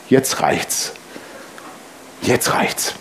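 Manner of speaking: hushed, barely voiced; whispered fed-up thought. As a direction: whisper it through the teeth. Innerer Gedanke, geflüstert. (geflüstert, genervt)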